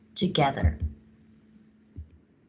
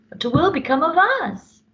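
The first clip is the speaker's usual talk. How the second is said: high, louder lament; despairing George; 10 semitones higher, 4 dB louder than usual. Acted. George fearing the endless changes. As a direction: wail the question in despair. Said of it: "said George".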